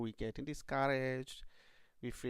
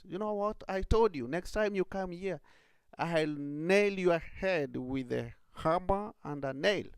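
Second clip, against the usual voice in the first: a lightly raised threatening rat; 6 semitones higher than usual. Acted. Rat warns rabbit a second time, mildly menacing. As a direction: warn him off as a cross shopkeeper.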